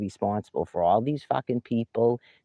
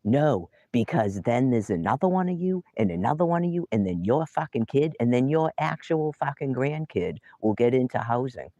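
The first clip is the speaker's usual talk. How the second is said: pitched-up sarcastic build; incredulous pitched-up rant; higher, rising rant; 5 semitones higher than usual. Real, not acted. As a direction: climb higher with each one.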